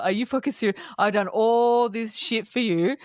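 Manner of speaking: mildly indignant mock tirade; imitating an annoyed outburst; retold annoyance. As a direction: act out being fed up, drawing out the complaint. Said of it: "she gets the shits".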